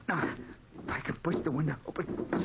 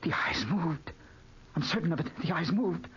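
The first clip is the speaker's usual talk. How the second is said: frightened whisper; 3 semitones higher than usual. Acted. Sees the portrait move.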